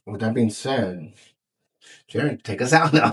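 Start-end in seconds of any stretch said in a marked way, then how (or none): 2.1-3.1 mock sign-off. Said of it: "I'm just playing".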